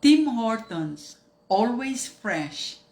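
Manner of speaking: slow slogan read like a commercial; mock ad slogan. Vlogger showing her sponsored clip, mock slow ad slogan. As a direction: sell it like a TV jingle line. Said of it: "Halimbawa, nagganyan ako".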